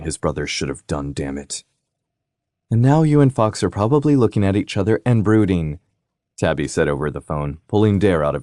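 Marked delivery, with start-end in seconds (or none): 2.7-5.8 younger sister, higher, teasing; a bright, needling little sister; sister's voice. Acted. Sister Tabby's voice.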